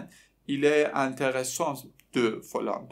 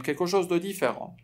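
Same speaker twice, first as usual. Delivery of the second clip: "دو" set between "کلکوشوز" and "دیفران"; correct form with "de"; 5 semitones higher than usual. Shown as a demonstration. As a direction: say "کلکوشوز دو دیفران", linking word included.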